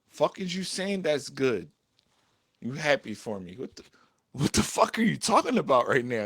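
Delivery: mildly heated, incredulous retort; exasperated mad. Retold or imitated. Boyfriend challenging girlfriend's praise, mildly exasperated. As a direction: question it with a touch of annoyance. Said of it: "it used to make me mad".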